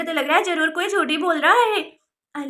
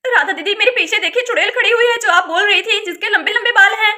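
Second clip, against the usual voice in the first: raised, higher-pitched panicked report; alarmed; 4 semitones higher, 5 dB louder than usual. Acted. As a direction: warn her urgently of the witch behind you. Terrified, reporting witch behind her.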